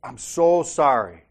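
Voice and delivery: slow, earnest sorry, stretching so; mean it, draw out the sorry; humbled, slow apology to the angry driver; sincere apology. Retold or imitated. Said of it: "I go".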